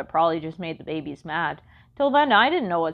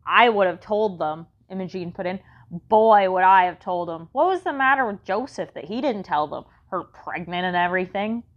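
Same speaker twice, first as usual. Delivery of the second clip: grumbling; 3 dB louder than usual. Acted. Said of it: "she grumbled".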